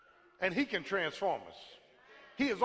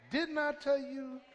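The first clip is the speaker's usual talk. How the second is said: mother's scolding tone; 4 semitones higher, slower than usual. Retold or imitated. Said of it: "My mother's tone was this".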